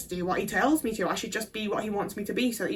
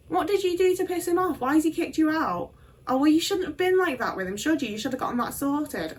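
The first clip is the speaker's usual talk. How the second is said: dismissive mum; 4 semitones higher than usual. Retold or imitated. Mum voiced dismissively on phone.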